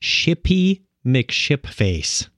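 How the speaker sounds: very slow, deliberate enunciation; measured, carefully separated syllables; slow and clear. Shown as a demonstration. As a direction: spell it out slowly, word by word, so there's no mistake. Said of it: "say this very slowly and clearly".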